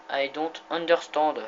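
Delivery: slow, lightly put-on English accent. Gamer showing off his English accent to viewers, mock English accent. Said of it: "Accent anglais parfait, non?".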